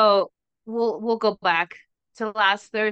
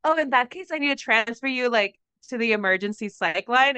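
bitchy phone operator; 2 semitones higher than usual. Retold or imitated. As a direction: imitate a snippy hotline worker. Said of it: "she knew I was being a bitch".

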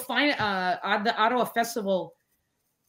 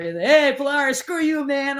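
higher, joking jab; mock insult; 7 semitones higher, 6 dB louder, slower than usual. Imitating the director ribbing her, mock rough. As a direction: tease her like an old buddy.

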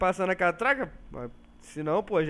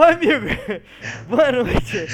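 laughing order; 3 semitones higher, 5 dB louder than usual. Retold or imitated. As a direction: laugh through a polite order. Ordering croissants, giddy with hunger.

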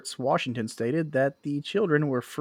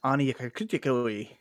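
glitchy robotic audio; glitching like a robot; toy robot voice; 3 dB louder than usual. Real, not acted. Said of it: "it sounded like you were a robot".

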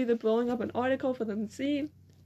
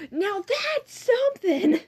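mock announcer; 8 semitones higher, slower than usual.

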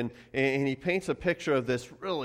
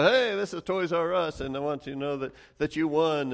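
fake store caller; 4 semitones higher, 3 dB louder than usual. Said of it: "kinda has the voice".

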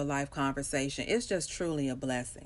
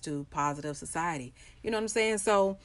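ordinary delivery

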